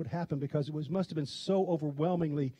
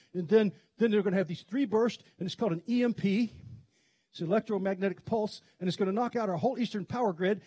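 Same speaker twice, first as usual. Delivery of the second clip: gravelly radio guy; 3 semitones higher than usual. Retold or imitated. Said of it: "kind of a gravelly voice".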